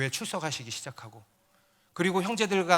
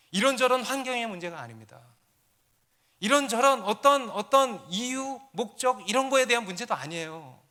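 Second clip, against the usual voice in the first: higher-pitched, building testimony; emphatic preaching; 6 semitones higher, 5 dB louder than usual. Real, not acted. Pastor proclaims a homesick student's recovery, emphatic preaching. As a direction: drive each change home to the congregation.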